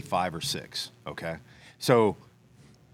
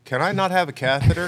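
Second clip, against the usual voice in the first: pleading question; 8 semitones higher, 6 dB louder than usual. Retold or imitated. Patient's plea in ER.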